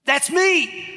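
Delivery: light up as it hits you; sudden recognition. Retold or imitated. Preacher seeing himself in the cartoon, surprised recognition. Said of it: "And I thought".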